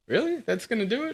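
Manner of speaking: sarcastic really-question; a squeaky high "really?"; mock disbelief. Mock incredulity at advice.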